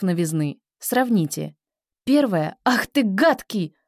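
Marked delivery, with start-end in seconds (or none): 2.6-3.7 loud. Shown as a demonstration. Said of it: "Громко".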